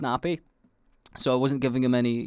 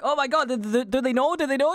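mock panicked scream; 12 semitones higher than usual. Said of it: "I start screaming".

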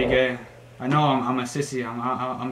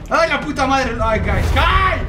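high loud frightened calling out; panicked cry; 11 semitones higher, 7 dB louder, slower than usual. Real, not acted. Scared gamer calls out to his viewers: high panicked shout.

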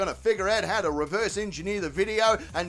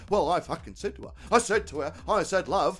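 lightly voiced mate, a bit lower; troubled mate Terry; 5 semitones lower than usual. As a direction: play the hapless mate retelling a tiff. Voices Terry retelling the argument.

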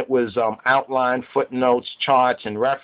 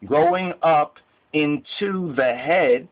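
slow deliberate emphasis. Shown as a demonstration. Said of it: "And take note of this".

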